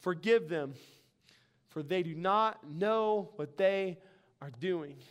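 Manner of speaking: slow, falling, hushed prayer; quoted prayer. Retold or imitated. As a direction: plead gently to the Father, letting it sink away. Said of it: "he prays a prayer".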